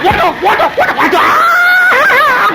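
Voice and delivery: preacher retelling his own shock, shouting high and laughing; laughing panicked yell. Retold or imitated.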